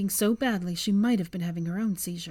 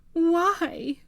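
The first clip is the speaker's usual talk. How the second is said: higher sudden shout; 10 semitones higher, 5 dB louder than usual. A narrator's reading. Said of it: "she suddenly shouted".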